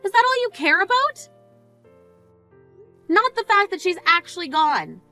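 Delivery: stunned fury at her selfishness; outraged disbelief. Acted.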